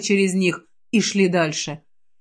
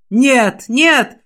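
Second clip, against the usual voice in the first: a louder shout of refusal; 3 semitones higher, 4 dB louder than usual. Acted. Aliar shouts no while fighting. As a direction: cry out to stop it. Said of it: "закричал Алиар".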